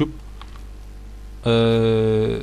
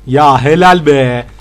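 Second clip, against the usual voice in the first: drawn-out praise; 6 dB louder, much slower than usual. Real, not acted. Praising teammate.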